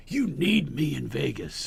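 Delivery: slow, lightly voiced movie-star menace; slightly drawn-out, emphatic impersonation; Nicholson. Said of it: "Kinda like Nicholson".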